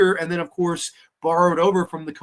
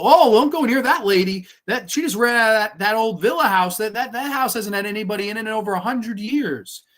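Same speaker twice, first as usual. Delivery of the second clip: put-on high, louder child voices warning; kids' voices; 6 semitones higher, 3 dB louder than usual. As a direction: play the spooky little kids. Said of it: "the kids look at her and they go".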